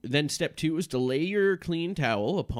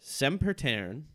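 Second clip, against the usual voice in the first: raised, slow chanting Latin; incantation; 6 semitones higher than usual. Acted. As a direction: intone it like a ritual spell. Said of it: "recite the following Latin aloud".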